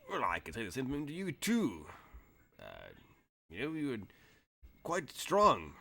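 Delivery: a hint of a genial old wrestler returning a compliment; Boston Brook. Game master as old wrestler praising the foreman, lightly voiced.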